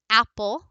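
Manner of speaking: lightly stressed AP in apple; stress on first syllable. Shown as a demonstration. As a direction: say apple stronger on AP, dropping on -ple. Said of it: "my voice is slightly higher".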